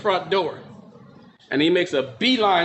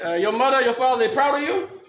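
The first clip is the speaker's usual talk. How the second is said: put-on higher Japanese-accented questioning, rising at the end; imitated Japanese-accented interrogation; Japanese judge; 5 semitones higher than usual. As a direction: press him as a Japanese judge. Judge questions him, acted.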